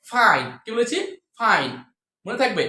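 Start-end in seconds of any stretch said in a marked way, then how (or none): 0.1-0.5 "ফাইন" with air on the f; louder model word, falling "ফাইন"; airy F. Shown as a demonstration. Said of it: "যদি বাতাসটা চলে আসে". 1.4-1.7 "ফাইন" with air on the f; airy F. Shown as a demonstration. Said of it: "যদি বাতাসটা চলে আসে".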